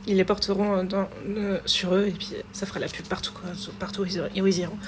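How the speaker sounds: strained, sore throat voice; talking through a sore throat. Real, not acted. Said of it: "j'ai vraiment du mal à parler, j'ai mal à la gorge".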